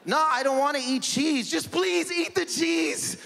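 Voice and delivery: hammed-up mother begging; mock mom. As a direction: overdramatic mother. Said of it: "Lebanese mom".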